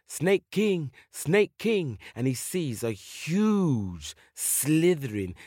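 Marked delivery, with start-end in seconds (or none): 0.1-2.0 raised, higher-pitched call; high call falling on the last word. Acted. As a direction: summon someone across a jungle clearing. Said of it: "and he calls".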